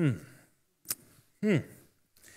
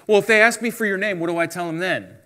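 quick, higher-pitched acted question; mock-worried, hurried and pitched up; pleading excuse; 5 semitones higher, 3 dB louder, faster than usual. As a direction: play someone hunting for an excuse. Acts Moses making excuses to God.

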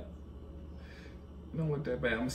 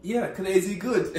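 high, loud, slow through laughter; laughing hype; 7 semitones higher, 6 dB louder, slower than usual. Pretend. Stylist reassuring client who looks crazy, laughing hype. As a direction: draw it out with a laugh.

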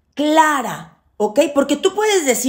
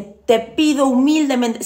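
humble plea; 2 semitones higher, slower than usual. Shown as a demonstration. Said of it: "siempre se pide humildemente".

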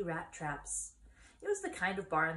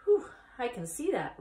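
1 pig; 5 semitones higher, 7 dB louder than usual. Acted. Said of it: "replied Wilbur".

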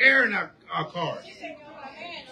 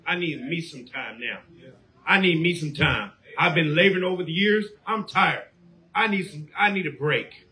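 mock lazy member; 2 semitones lower than usual. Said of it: "What you're doing is you saying".

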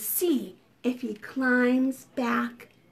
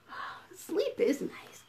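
sleepy murmur; 8 dB quieter than usual. Acted. Lying down, getting comfy.

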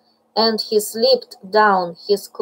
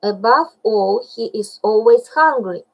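hopeful; 3 dB louder than usual. Acted. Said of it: "said Baloo hopefully".

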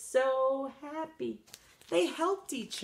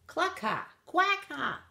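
hen and duck jeering; lightly voiced farmyard birds laughing; mocking bird laughter; 7 semitones higher than usual. A narrator's reading. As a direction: cluck and quack turned into laughs. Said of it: "the other animals on the farm laughed".

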